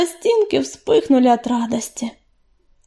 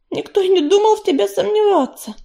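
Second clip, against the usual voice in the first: higher, lightly soothing reply; unruffled purr; 8 semitones higher than usual. A narrator's reading. Песчаная буря reassures her doubting mate, unruffled purr. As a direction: purr it, unperturbed. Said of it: "невозмутимо промурлыкала песчаная буря".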